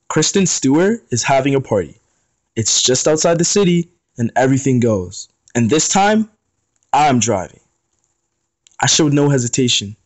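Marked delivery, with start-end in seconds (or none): 0.1-7.6 excited. Acted. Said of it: "Aries spoke with excitement".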